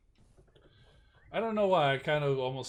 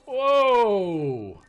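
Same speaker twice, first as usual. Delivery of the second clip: long, loud, high whoa falling away; drawn-out acted exclamation; 8 semitones higher, 10 dB louder than usual. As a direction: stretch it out big to calm things down. Acted reaction to a threat.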